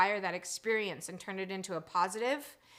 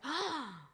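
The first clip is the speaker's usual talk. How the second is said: soft mock gasp of shock; small, breath-in "Ah"; retold gasp; 5 semitones higher, 4 dB quieter than usual. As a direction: gasp as if cut off mid-complaint. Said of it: "And I was like".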